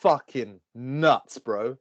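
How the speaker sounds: slow, drawn-out tough-guy impression; light action-hero imitation; Arnie. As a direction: stretch each word out slowly. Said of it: "like, an Arnie voice in my head".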